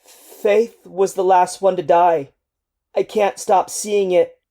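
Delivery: a soldier breaking down as he relives it; grief-stricken soldier pouring out his trauma to El, crying; strangled crying. Acted. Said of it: "Your last words are a strangled cry".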